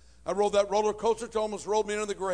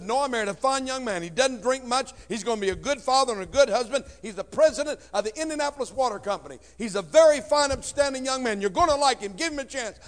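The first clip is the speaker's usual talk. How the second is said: higher, mother's earnest plea; pleading mom; 4 semitones higher, 5 dB louder than usual. Retold or imitated. Mom on the phone to her teenage son, pleading. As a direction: sell her new man to her son. Mom defends new husband.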